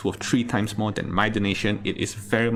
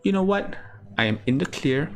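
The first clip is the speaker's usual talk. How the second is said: higher-pitched, carefree confidence; breezy self-assurance; 5 semitones higher than usual. Acted. Passenger tells himself the worst is over, breezy confidence. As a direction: talk yourself into feeling safe.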